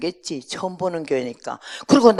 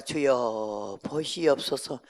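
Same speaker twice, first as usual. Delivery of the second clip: quiet prayer; 5 semitones lower, 3 dB quieter, much slower than usual. Retold or imitated. Lonely prayer in prayer room.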